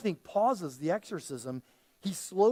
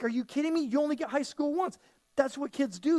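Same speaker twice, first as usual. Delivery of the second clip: mock peer-pressure shaming, pitched up; lightly acted taunt, higher and incredulous; 5 semitones higher than usual. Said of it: "the devil will virgin shame you".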